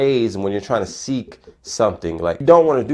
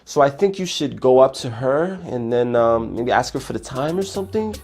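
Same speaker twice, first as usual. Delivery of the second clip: unsure, hesitant; 3 semitones higher than usual. Shown as a demonstration. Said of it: "How exactly does that sound".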